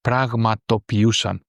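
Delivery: Πραγματοποιούσαν said evenly, syllable by syllable; careful pronunciation. Shown as a demonstration. Teacher repeating a difficult word for learners, Πραγματοποιούσαν carefully pronounced. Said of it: "I read it again because it's a little difficult".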